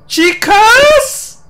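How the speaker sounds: drawn-out, very high yelp of surprise; startled high cry. Real, not acted. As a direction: squeal at an unexpected encounter. Runs into Chica unexpectedly. (화들짝 놀라 높은 소리로)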